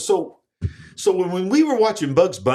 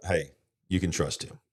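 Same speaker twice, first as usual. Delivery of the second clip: sarcastic; 10 semitones lower, 9 dB quieter than usual. Pretend. Mocking the man in the cap.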